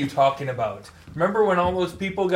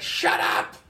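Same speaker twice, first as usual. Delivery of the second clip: whispered shout. Retold or imitated. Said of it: "She's like".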